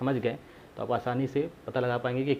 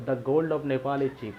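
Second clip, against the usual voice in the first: slow, word by word; "the gold of Nepal is cheap" read slowly for the class; slow example reading; much slower than usual. Shown as a demonstration. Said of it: "तो". (उदाहरण को धीरे-धीरे पढ़ना)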